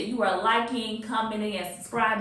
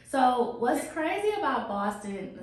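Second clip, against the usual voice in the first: a light Boston accent creeping in, slower; slipping Boston accent; 2 semitones higher, slower than usual. Real, not acted. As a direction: let a touch of Boston accent slip in, slowly. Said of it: "my accent changed right there".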